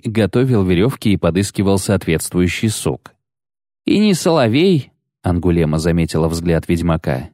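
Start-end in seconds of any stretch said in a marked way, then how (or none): 3.8-4.9 put-on high-pitched young voice; girlish remark. A narrator's reading. Angouleme noticing the witcher's look, high girlish voice. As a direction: say it high and quick-witted. Angouleme comments on failed rescue.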